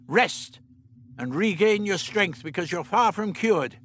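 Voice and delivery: lightly voiced elderly scientist; the Doctor. A narrator's reading. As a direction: play the Doctor, matter-of-fact.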